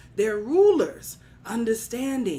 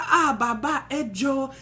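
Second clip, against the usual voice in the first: raised-pitch mock pleading; begging; 4 semitones higher, 4 dB louder than usual. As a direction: beseech a revered elder. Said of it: "They begged and they pleaded".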